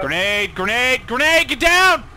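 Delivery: rising grenade warning. Real, not acted. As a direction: voice climbing to a yell.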